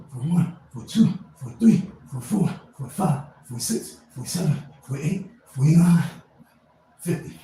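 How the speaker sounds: loud strained count near the end of the set; forcing the last rep out with a shout. Real, not acted. Vlogger doing push-ups, forcing out the last count loudly.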